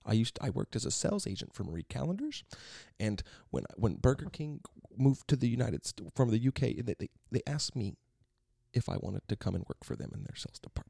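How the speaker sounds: halting, measured professor impression with lilting rises; odd professor's voice. Student mimicking a professor's career boast, halting and lilting. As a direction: imitate a professor reminiscing in broken phrases. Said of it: "He really talked like that?".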